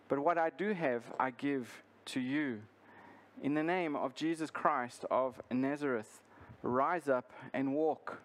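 measured Bible reading with deliberate pauses; formal read-aloud, phrase by phrase; scripture reading. Acted. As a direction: read the passage aloud to a congregation. Reads the scripture passage aloud.

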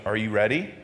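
lightly voiced patient Lord. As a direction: ask kindly, like a waiting parent. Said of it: "eventually always goes".

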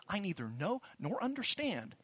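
each word pressed hard, "neither" and "nor" stressed; a firm, insistent denial; emphatic denial. Retold or imitated. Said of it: "with emphasis".

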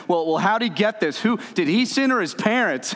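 the preacher mimics the religious asking who sinned, high and pressing; mock religious questioners. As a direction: play the nosy accusers asking who sinned.

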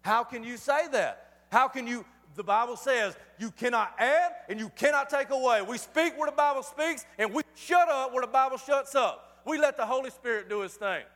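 emphatic sermon challenge; insistent pulpit delivery; forceful preaching. Real, not acted. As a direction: preach it with punched key words.

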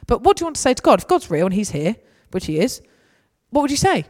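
urging a clubber to talk to God; animated coaxing. Retold or imitated. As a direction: draw the words out of them. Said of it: "acting the prayer invitation".

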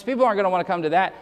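rattled off very fast, mock shrug; mock reasoning. Preacher mocking the excuse about long sermons, very fast. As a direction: rush the lazy excuse out. Same excuse repeated, even faster.

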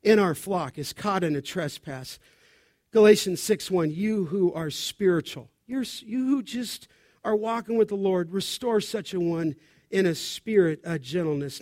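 understated, tender correction; gentle exhortation. Acted. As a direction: say it gently, as mild counsel. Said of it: "would just gently say".

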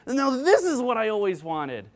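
high-pitched, delighted one-upping; excited child's insistence on THIS; thrilled kid. Acted. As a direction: exclaim like a kid tearing open a present. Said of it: "they tear it open and say".

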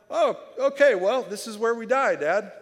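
high, loud mock alarm; hammed-up exasperated panic. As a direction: complain to Dad as if doomed. Retells doomed complaint to Dad.

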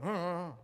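short low grumbled huffs under the breath; low grumbling mutter. Shown as a demonstration. Preacher shows how the Greek word sounds: low muttering grumble. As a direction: mutter it like a sulky complainer. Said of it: "grumbling in a low voice".

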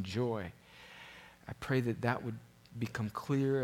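quiet, measured public prayer; earnest prayer. Real, not acted. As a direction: pray sincerely and gently for the congregation. Leads a prayer.

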